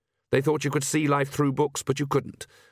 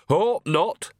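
higher, cheerful retort; happy; 6 semitones higher, 4 dB louder than usual. A narrator's reading. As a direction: say it happily, pitched up. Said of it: "said Nanny happily".

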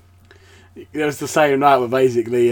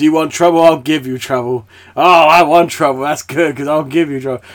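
louder, squaring up for a fight; cartoon fight threat; 3 semitones higher, 6 dB louder than usual. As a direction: act out two cartoon men goading each other. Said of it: "Homer are about to have a fight".

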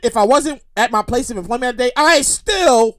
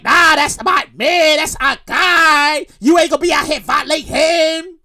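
very slow, louder mock defiance; protective mock senators; 3 dB louder, slower than usual. Senators defending the impeached president, in slow, loud mock defiance. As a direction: drag it out, shielding their guy. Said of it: "they was like".

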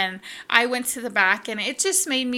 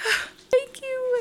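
touched thanks; 14 semitones higher than usual. Retold or imitated. Moved client thanks stylist again.

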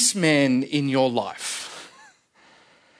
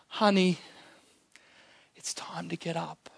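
put-on much softer, hushed words to a sleeping child; soft whisper; 8 dB quieter than usual. Jesus whispering to the dead girl, soft hush. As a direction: breathe it gently like waking a child. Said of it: "he whispers to her".

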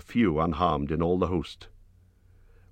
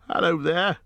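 high, shaky calling out into the dark; 11 semitones higher, 3 dB louder than usual. A narrator's reading. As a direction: call out hesitantly, unsure who will answer. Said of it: "he called with a shaky voice".

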